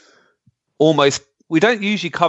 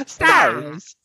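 zombie moan; 10 semitones higher than usual. Retold or imitated. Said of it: "imagine if that was a zombie's voice".

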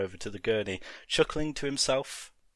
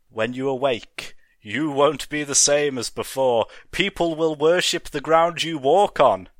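louder, building to a high cry; grandiose villain; 4 semitones higher, 7 dB louder than usual. Acted. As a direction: swell into a mad promise.

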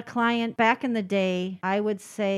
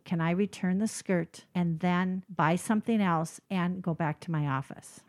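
retold whisper; 3 semitones lower, 5 dB quieter than usual. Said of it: "she's whispering to me".

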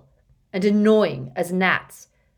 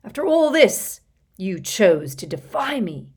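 loom and accuse with wounded fury; villainous accusation; 3 semitones higher, 8 dB louder than usual. A narrator's reading.

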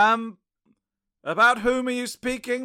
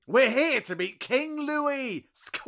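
excited squeal; 5 semitones higher, slower than usual. Acted. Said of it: "I'm a bit excited".

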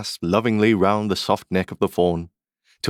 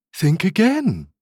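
higher, sweet animal voice; prompting fawn; 11 semitones higher, slower than usual. Acted. Fawn urging Alice to remember, gently insistent. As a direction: nudge the child in a high creature voice.

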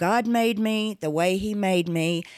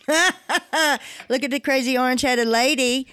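laughing mockery; 4 semitones higher, 3 dB louder than usual. Real, not acted. Mocking the president, laughing.

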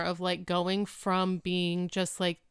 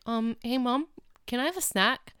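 put-on higher-pitched, wheedling kid voice; imitating a pleading child; 5 semitones higher than usual. Son asking mom for a snack before dinner, wheedling. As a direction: ask sweetly like a kid angling for a treat.

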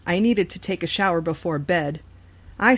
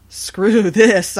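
fed up; 3 semitones higher, 9 dB louder than usual. A narrator's reading. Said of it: "I thought".

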